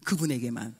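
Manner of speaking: lightly voiced son, low and drawn out; solemn slow. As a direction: intone it like a reverent vow. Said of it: "이 절 또 꼭 해요".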